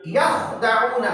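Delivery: यखदाऊना slow with a heavy kh; slow heavy yakh. Shown as a demonstration. Teacher recites the word from Surah Baqarah. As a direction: recite यखदाऊना slowly, kh thick. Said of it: "यहाँ पर देखिए".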